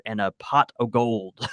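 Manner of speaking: slow playful Irish lilt on pot o' gold; a hammed-up Irish brogue as the ad copy ends; mock Irish accent. Host finishing the sponsor blurb, mock Irish accent. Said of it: "that was a good accent".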